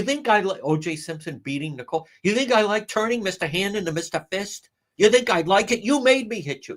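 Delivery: high, indignant put-on voice; high mocking Karen voice; mock Karen Reed. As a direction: play her as a self-pitying abuser. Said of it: "That was her Karen Reed".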